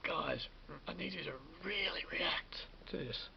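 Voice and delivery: imitating a director's hushed whisper; retold whisper. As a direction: breathe it like a coaxing director. Director quietly urging actors.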